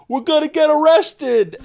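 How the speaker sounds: high, loud panicked yell; panicked outburst. Retold or imitated. Pranked comedian yelling to Tommy in the mall, high panicked shout. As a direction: blurt it out in sudden alarm. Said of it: "he, like, freaks out".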